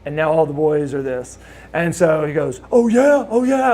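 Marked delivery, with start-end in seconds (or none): 2.7-3.7 high, loud mock taunt; mocking oh yeah. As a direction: sneer it like a cocky challenge. Rude's mocking comeback, retold.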